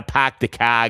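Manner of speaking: token Boston accent, R's dropped; a quick stock Boston accent. Shown as a demonstration. Host disowning the cliché phrase, light Boston accent. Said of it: "can you do a Boston accent".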